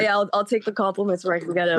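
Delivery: hoarse voice from a cold; sick voice. Real, not acted. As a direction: talk through a sore throat. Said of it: "That's a pretty good sick voice".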